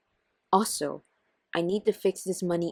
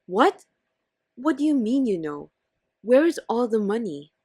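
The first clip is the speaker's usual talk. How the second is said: shocked anger; 4 dB louder than usual. Acted. Louise confronting wife over missing money, angry. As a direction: confront her. Spouse discovers money gone.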